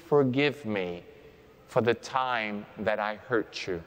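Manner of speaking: gentle modelled plea for forgiveness; sample prayer. Shown as a demonstration. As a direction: pray it slowly and humbly. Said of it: "and you're gonna say".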